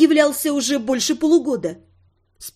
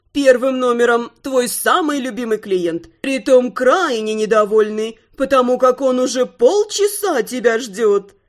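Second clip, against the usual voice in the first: gloating singsong. Acted. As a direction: sing it out, pleased with yourself. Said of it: "настолько довольно пропела".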